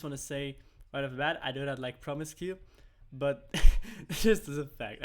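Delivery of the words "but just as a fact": laughing jab. Real, not acted. Laughing at his own jab.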